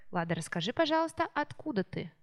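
usual speaking voice

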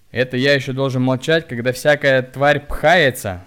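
angry reply. A narrator's reading. Hunchback angrily answers the pushing woman. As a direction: spit it out in anger. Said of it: "со злостью ответил он ей".

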